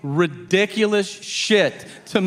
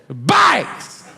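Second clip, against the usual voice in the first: excited yell; 7 semitones higher than usual. Retold or imitated. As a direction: blurt it out gleefully. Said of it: "And he goes".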